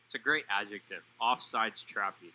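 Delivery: lightly sarcastic, dry echo of a phrase; a touch of sarcasm, slowing on the quoted phrase. Real, not acted. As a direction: admire the wording with understated sarcasm. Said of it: "a little bit of sarcasm".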